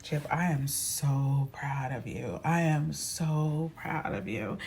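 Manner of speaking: slow, tender praise; sister's slow warm pride; slow proud sister. Retold or imitated. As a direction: slowly tell her you're proud.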